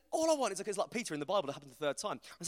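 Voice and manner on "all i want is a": mock exasperation. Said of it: "I'm getting angry at this point".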